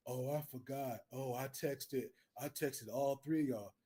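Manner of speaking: voiced excuse maker. Roommate explaining to the teller, low mumbled mimicked excuse. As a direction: play the sheepish excuse-giver. Voicing the other man's lame excuse.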